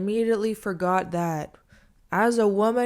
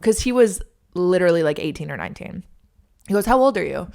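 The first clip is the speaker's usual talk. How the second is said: nosy server; 7 dB louder than usual. Retold or imitated. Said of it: "he's like".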